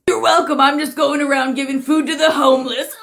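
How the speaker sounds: lightly high, giggly do-gooder; mock-generous, laughing at the end; smug prankster. Prankster boasting about feeding strangers, smug and giggly.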